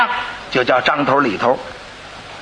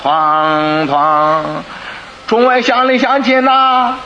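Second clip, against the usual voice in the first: 敲锣沿街吆喝认罪; 像游街示众一样拖长声喊; 4 semitones higher, slower than usual. Acted. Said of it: "还得吆喝". (敲着锣高声吆喝)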